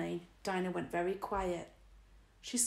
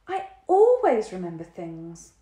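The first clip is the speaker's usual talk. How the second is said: slowly; 10 dB louder than usual. A narrator's reading. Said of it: "Dinah said slowly".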